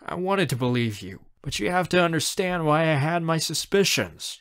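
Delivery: mildly defensive uncle; arguing. Acted. Uncle justifies his suspicions, mildly arguing. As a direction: reason back, a touch insistent. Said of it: "he argues".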